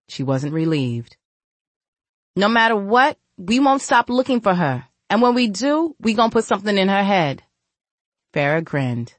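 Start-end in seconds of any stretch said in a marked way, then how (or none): 2.4-7.4 lightly voiced threat. Character dialogue, voiced.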